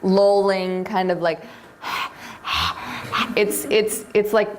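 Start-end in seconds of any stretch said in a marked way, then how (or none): 1.8-3.3 imitated happy panting. Shown as a demonstration. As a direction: breathe out like a happy dog with its tongue out. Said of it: "sort of happy pant".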